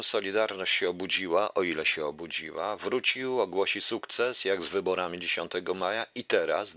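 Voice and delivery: emphatic, punchy opening attack; declaimed political commentary. Acted. Host reads his text addressing miners, emphatic declamation.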